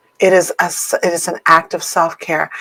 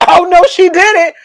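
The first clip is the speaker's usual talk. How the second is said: body talking; 9 semitones higher, 5 dB louder than usual. Pretend. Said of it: "your body said".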